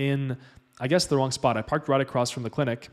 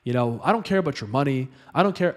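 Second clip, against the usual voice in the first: imitating scolding; 2 semitones higher than usual. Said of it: "literally, he's like this".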